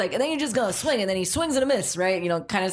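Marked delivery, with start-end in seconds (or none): 0.1-1.0 put-on light Southern rooster accent; a touch of Foghorn Leghorn's Southern twang. Rooster coaching the boy's swing, light Southern accent. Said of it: "committing to the accent".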